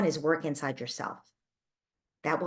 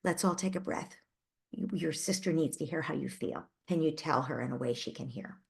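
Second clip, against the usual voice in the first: calm grown-up; 4 dB quieter than usual. Shown as a demonstration. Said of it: "be the grown-up in the room".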